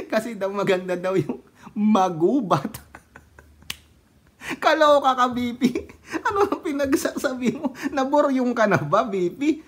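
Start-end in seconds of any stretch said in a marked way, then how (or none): 4.6-9.6 excited teasing. Real, not acted.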